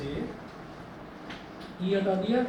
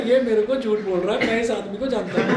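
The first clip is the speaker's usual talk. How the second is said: louder retold accusation; father angrily insisting the son is lying, mildly raised; father's mock accusation; 4 semitones higher, 4 dB louder than usual. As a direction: accuse him, voice raised a little. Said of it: "कह रहे".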